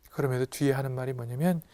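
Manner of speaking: ordinary talk, nothing marked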